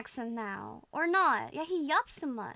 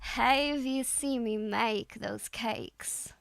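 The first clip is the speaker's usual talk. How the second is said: slow, deliberate Southern drawl; Southern accent attempt; much slower than usual. Shown as a demonstration. Student drilling the coach's line, slow Southern drawl. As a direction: drawl the sentence out carefully. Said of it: "it'll sound something like this".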